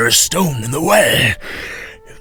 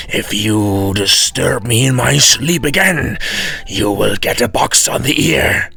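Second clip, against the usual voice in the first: threatening devil; 3 semitones higher, 4 dB louder than usual. Acted.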